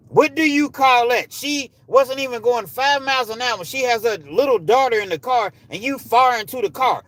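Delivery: high, loud and indignant; outraged demand. Real, not acted. Challenging viewers over a mother shot in her car, outraged. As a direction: shout it as an incredulous challenge.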